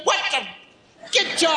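upset father. Retold or imitated. Imitating father too upset to finish sentences, sputtering. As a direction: start to curse and choke it off. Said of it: "My father'd get upset and he said".

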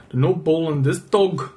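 put-on Scottish-ending accent. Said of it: "that's Scottish at the end".

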